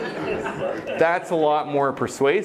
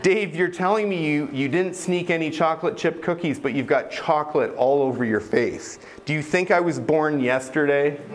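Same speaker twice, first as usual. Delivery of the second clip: parent catching a fib; 3 semitones higher than usual. Retold or imitated. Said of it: "saying things to me like".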